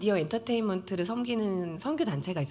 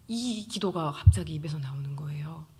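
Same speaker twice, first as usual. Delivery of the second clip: unvoiced, breathy telling; awed whisper; hushed whisper; 3 semitones lower than usual. Real, not acted. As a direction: whisper the wonder of it. Recalling the prayer's surprise.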